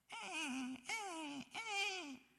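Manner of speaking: high, drawn-out whimpering whine; whining dog. Retold or imitated. Preacher imitating a begging army dog, slow high whine. Dog begs, looking at meat.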